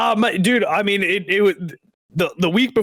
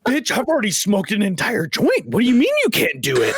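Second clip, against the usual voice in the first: mock outrage; 5 semitones higher than usual. Retold quarrel with friend.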